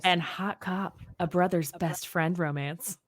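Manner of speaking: sultry perfume ad. Pretend. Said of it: "can you use your sultry voice".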